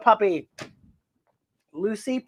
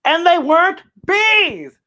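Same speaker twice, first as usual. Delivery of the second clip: insisting; 10 semitones higher, 4 dB louder, slower than usual. Acted. Dog insists, slow and high.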